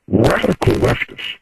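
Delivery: garbled, computer-like voice over the phone line; caller's voice warped into a computer by the phone line; robotic phone distortion. Real, not acted. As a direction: sound like a glitching phone connection. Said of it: "your voice just morphed".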